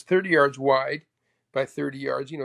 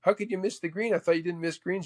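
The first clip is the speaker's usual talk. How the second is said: mock heckler; 5 semitones higher than usual. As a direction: needle him like a gallery heckler. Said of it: "some guy goes".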